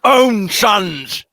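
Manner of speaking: heavy pointed reading, a mock queen hinting at the old king's death. Teasing listeners with the queen's unspoken hint, a pointed mock reading. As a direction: lean on the but, make the hint obvious. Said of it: "She says, you know".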